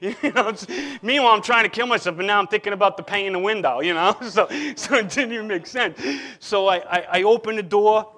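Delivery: loud, laughing disbelief at himself; real laughter breaking into the story. Real, not acted. Laughing at his own absurd thought.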